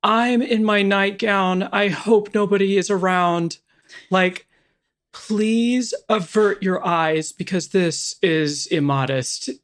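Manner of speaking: high, slow hammed-up call to the whole house; imitating a girl calling from far off, high and drawn out; mock yell across the house. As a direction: sing it out high and slow, like a prim girl announcing herself. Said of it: "and just yell across the house".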